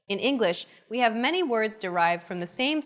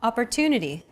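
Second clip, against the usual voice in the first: Opportunity with a longer "tu" syllable; stress on TU. Shown as a demonstration. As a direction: lean on the "tu" in Opportunity. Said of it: "it's pronounced longer than all other syllables".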